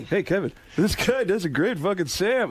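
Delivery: lightly voiced casual impression; Norm Macdonald. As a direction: egg someone on in a put-on voice. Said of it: "And he goes".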